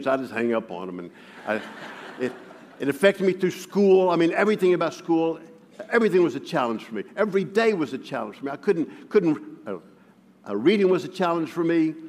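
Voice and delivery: usual speaking voice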